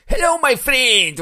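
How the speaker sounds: high, loud, slow Pakistani English; Pakistani accent. Retold or imitated. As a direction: greet like a Pakistani shopkeeper. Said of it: "пакистанский английский".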